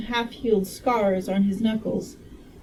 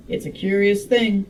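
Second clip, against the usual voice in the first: lightly Southern character voice; attempted Southern accent. Medical man remarking on strange flowers, half-managed Southern accent. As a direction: try a mild, unconvincing Southern accent. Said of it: "I tried to make him Southern".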